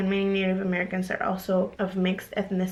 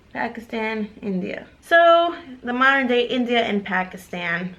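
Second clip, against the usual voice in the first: ordinary talk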